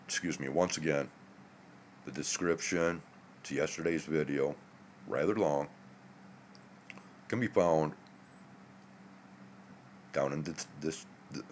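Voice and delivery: drowsy, sleepy voice; barely awake, words slurring; half asleep. Real, not acted. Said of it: "I'm still kinda half a-, half asleep".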